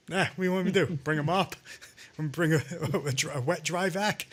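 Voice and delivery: dismissive imitation breaking into laughter; mock Christie laughing. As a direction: laugh through the mocking quote. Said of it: "would he say that?".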